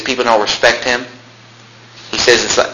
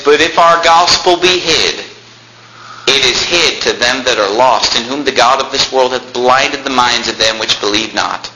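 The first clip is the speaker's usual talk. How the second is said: scripture reading; slower than usual. Acted. Reads scripture aloud.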